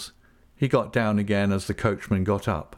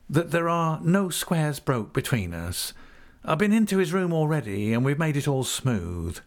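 higher, sly fawning voice; oily humble clerk; 5 semitones higher than usual. Acted. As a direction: simper it with sly smugness. Uriah hanging on coach.

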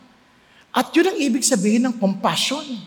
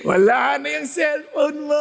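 teasing joke. Retold or imitated. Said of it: "Yung i-joke-joke mo pa".

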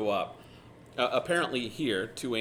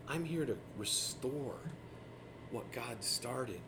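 gentle Jesus; 4 dB quieter than usual. Retold or imitated. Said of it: "And Jesus is like".

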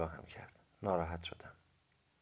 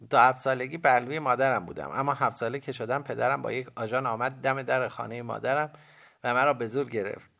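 put-on high, loud boy's voice; young boy; 6 semitones higher, 9 dB louder than usual. A narrator's reading. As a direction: recount it as an earnest boy, pitched up. Boy character tells his story.

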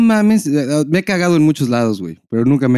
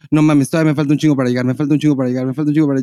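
quick self-talk, fast; mock pep talk to himself; faster than usual. Guy tricking his bladder on the way home, fast self-talk. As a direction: rattle it off to fool your bladder. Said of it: "yo sí voy pensando".

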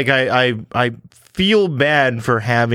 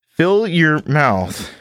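mock ad read; 2 semitones lower, slower than usual. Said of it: "That's what it says".

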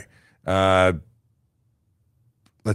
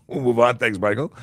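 laughing; 5 semitones higher, 5 dB louder than usual. Real, not acted. Repeated with a laugh.

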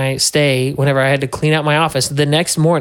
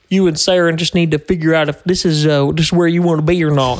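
imitated boss voice. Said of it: "whenever you do that voice".

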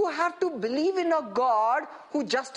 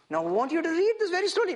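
quicker repeat; 3 semitones higher, faster than usual. Shown as a demonstration. Same instruction repeated quickly.

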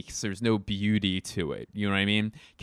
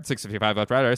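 movie crew impression; faster than usual. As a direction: repeat it back like a helmsman. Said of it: "here's my impression of".

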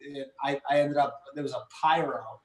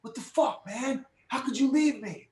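high, upset mock whine; a hurt Tom Cruise, pitched well up; imitating Tom Cruise; 10 semitones higher than usual. Retelling the movie to the producer, high mock whine. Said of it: "Tom Cruise is like".

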